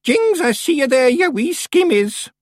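loud, high Scots bellow. A narrator's reading. Old witch catches the creeping Feegles, bellowing. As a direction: startle them with a sudden loud cry. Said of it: "banged on the arms of her chair and bellowed".

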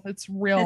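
real said as rill, short and flat; Midwestern real. Shown as a demonstration. Explaining Midwestern speech to players, real pronounced rill. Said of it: "how Midwesterners pronounce real".

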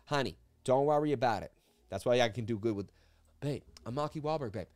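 swaggering Boston tough guy who can do anything; Mark Wahlberg impression. Streamer does his Marky bit for live chat, cocky Boston accent. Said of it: "Always gotta do a Marky impression".

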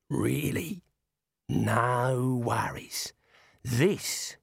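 slow, cocky Aussie voice; tough Aussie dwarf. Acted. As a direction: drawl it with confidence. Mad counters.

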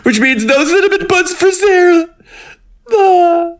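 squeaky high whine of mock grief; mock lament. Host mourning no buns for her co-host, squeaky mock wail. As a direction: wail it in a tiny high voice for Sarah's sake. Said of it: "mock lament".

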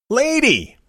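calling after the woman who ignores him; retold yell. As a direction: shout after her a second time. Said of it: "I yelled at her".

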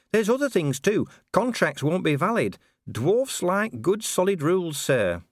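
high-pitched, earnest dwarf officer; earnest Cheery. Acted. Dwarf officer explaining burials to Vimes, earnest. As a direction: explain it anxiously, pitched well up.

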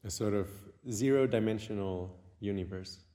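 unhurried meditation guide with long pauses; guided meditation. Acted. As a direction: guide the listener inward, leaving long silences.

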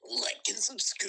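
loud slow prompt. Pretend. Prompting friend's outro line.

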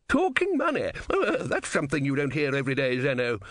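starts very high, then settles into a sneer; high, sneering philosopher; mocking philosopher. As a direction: tease the bettor. Second philosopher mocks the bet.

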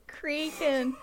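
teasing Minnesotan vowel on "Kraken"; imitated Minnesotan accent. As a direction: mimic a Minnesotan saying "Kraken". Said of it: "I think that's your Minnesotan accent coming out".

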